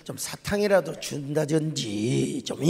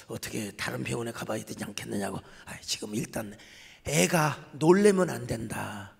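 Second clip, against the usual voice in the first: quieter, lower, measured and steady; calm reassurance; 4 semitones lower, 4 dB quieter than usual. Retold or imitated. Pastor tells the worried truck driver to stay calm, soft steady reassurance. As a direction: settle him down like a patient pastor.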